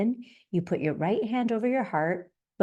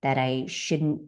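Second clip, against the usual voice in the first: gentle self-noting; 4 semitones lower than usual. Shown as a demonstration. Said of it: "and then you can say".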